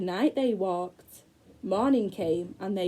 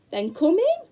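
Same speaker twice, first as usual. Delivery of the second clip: high, louder crone voice; old woman's voice; 9 semitones higher, 4 dB louder than usual. Acted. The old woman inviting the children in, in a high crone voice. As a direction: beckon them in like a sly old woman.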